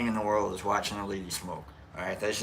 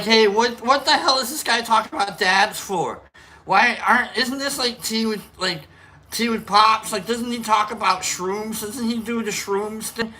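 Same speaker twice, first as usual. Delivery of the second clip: mock confused viewer; 9 semitones higher, 4 dB louder than usual. Imagined viewer asking about dabs.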